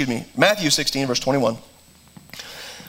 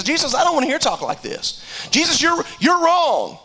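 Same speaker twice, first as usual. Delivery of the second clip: mild rebuke; 7 semitones higher than usual. Retold or imitated. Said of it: "Peter stands up and he rebukes".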